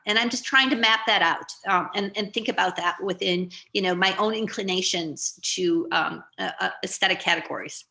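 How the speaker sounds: talking with a mouth full of food; words round a bite of food. Real, not acted. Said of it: "chewing on it".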